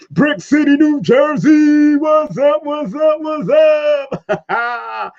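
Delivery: high, loud shout-out to the city; hype shout. Real, not acted. Host greeting New Jersey viewers on livestream, high hype shout.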